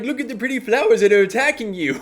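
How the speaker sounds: high, loud, sing-song dreamy tone; airy dreamy voice. Retold or imitated. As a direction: play it like a spacey flower child. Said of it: "You've always just been like".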